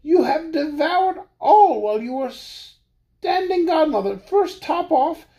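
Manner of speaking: high, tearful little mouse; crying mouse. Acted. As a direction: wail it through tears. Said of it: "said the mouse, crying".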